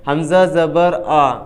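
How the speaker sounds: "حمزہ زبر آ" spelled as letter name, vowel name, then sound; spelled-out hijje. Shown as a demonstration. Teacher giving an example of zabar, spelled-out hijje of "حمزہ زبر آ". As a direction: recite "حمزہ زبر آ" piece by piece, ending on an open aa. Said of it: "جیسے".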